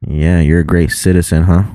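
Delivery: dry, mock-praising tease; deadpan ribbing; teasing sarcasm. Real, not acted. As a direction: needle a friend with fake praise. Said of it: "I'm just busting your balls".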